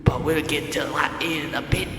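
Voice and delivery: medieval Scottish jailer; hammy Scottish interrogator; Scottish accent. Acted. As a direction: threaten in a put-on Scottish accent. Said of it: "Scottish, yes. I am from Scotland".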